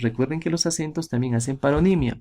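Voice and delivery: normal talking voice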